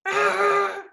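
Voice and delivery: high-pitched mad growl; angry dinosaur growl. Acted. Rory the dinosaur hearing he can't fly, mad growl. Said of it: "He was mad".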